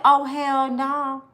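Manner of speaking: slow, loud angry drawl; mock-furious, slow and loud; mad. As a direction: let the anger land word by word. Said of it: "So now I'm mad".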